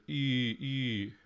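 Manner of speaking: "e" as one long, pure ee; long vowel. Shown as a demonstration. Showing the merged form, "e" said as a long ee. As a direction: hold "e" as a single long vowel, no second vowel. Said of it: "the long vowel win here".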